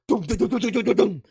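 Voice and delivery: rhythmic dum dum gunfire sounds; imitated gunfire. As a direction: mouth the gunshots, punchy and high.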